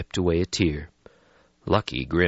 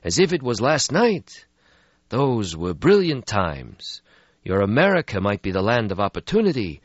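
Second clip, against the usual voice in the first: put-on weary old vampire; 6 semitones higher, 4 dB louder than usual. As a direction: sigh out an ancient regret. Stretsky voiced in story.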